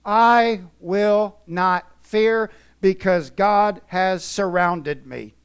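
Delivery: very slow and loud, dragging I will not fear; slow emphatic. Retold or imitated. Preacher voicing David in the valley, slow emphatic. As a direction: stretch it out with conviction. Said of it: "Can you imagine David".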